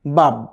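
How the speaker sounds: বাব with the final ব cut short and held still, no vowel after it; stop on the sukun. Shown as a demonstration. Teacher shows students the sukun stop: বাব, ending abruptly. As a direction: say বাব and stop dead on the last ব. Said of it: "বাব বলেই থেমে যেতে হবে".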